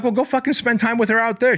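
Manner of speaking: retold snap. Narrator to the girlfriend who hit him, exasperated high retort. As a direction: fire it back at her, fed up. Snapping back at attacker.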